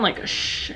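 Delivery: sh said as a soft, hushed hiss; drawn-out unvoiced sh for sh; sh sound. Shown as a demonstration. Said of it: "S H sound".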